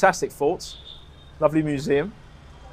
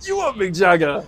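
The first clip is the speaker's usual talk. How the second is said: put-on Indian accent; 4 semitones higher, 5 dB louder than usual. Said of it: "Oh, this is a famous singer".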